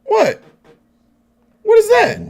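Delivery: high loud ticked-off dog voice; voicing the dog. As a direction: speak as the grumpy dog. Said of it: "He was like".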